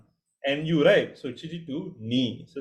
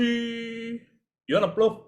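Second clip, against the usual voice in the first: ordinary delivery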